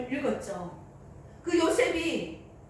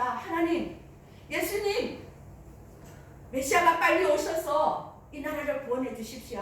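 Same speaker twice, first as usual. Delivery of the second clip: earnest prayer; 3 semitones higher than usual. Acted. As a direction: beg God urgently to send the Messiah. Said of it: "정말 하나님 앞에 간절히 기도했었죠".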